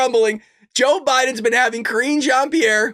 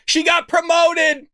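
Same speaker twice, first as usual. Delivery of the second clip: incredulous reveal; 5 semitones higher than usual. Real, not acted.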